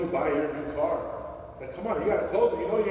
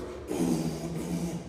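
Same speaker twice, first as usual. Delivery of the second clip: imitated car bass; 2 semitones lower, 5 dB quieter than usual. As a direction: imitate a thumping car stereo. Imitates booming car stereo bass.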